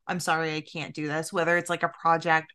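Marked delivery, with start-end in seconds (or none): 0.1-1.3 soft, understated retold apology; a low-key, quieter sorry; apologetic. Host quoting herself backing out of a project, mildly apologetic. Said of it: "I'm usually super apologetic".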